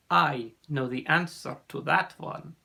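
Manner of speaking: put-on measured, accented answer; knowing sea serpent. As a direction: offer the answer in a lightly voiced accent. Ossian answers the puzzle.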